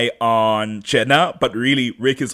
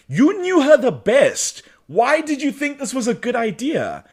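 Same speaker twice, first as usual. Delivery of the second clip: mock exasperated; 11 semitones higher than usual. Host scolding Damon for his bad idea, high exasperation. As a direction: wail it at a foolish character.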